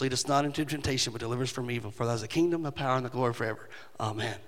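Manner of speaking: fading prayer recital. Retold or imitated. Pastor recalling the team's closing prayer, fading to a hush. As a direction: let the prayer drift down to a murmur.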